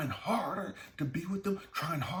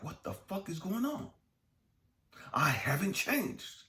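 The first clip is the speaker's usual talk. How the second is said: acted defensive partner; 4 semitones higher than usual. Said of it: "And he's like".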